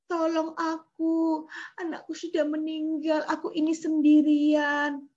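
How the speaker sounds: mild mock crying plea; weeping mother. Widow begs Jesus for help, mildly tearful. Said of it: "ada ibu-ibu menangis".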